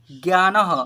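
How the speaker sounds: ज्ञानः said loudly as gyaa-naha; visarga ending. Shown as a demonstration. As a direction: finish ज्ञानः on a clear aha. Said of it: "अह है last में". (ज्ञानः में विसर्ग का साफ़ उच्चारण)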